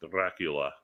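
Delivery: "Dracula" said low and soft with a rolled R. Shown as a demonstration. Explaining the rolling R's, "Dracula" with rolled R. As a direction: trill the R in "Dracula", quietly. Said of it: "rolling R's. So".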